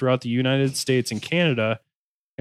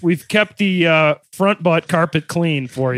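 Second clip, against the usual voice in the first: car salesman voice; 3 semitones higher, 6 dB louder than usual. Pretend. Mock salesman pitching wife.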